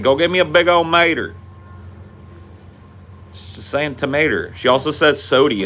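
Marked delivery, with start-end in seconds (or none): 0.0-1.3 imitating mom. Mom asking for a big old tomato, imitated higher. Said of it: "She said".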